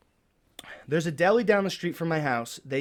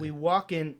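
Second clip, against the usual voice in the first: mock sexual. Storyteller trying his friend's suggestion, lightly mock-sexual. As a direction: play it sultry, half-heartedly. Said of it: "like, sexually".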